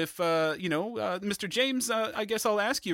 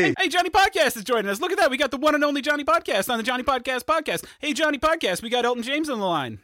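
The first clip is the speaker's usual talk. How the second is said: excited greeting; 4 semitones higher, 5 dB louder than usual. Acted. Host greets caller excitedly.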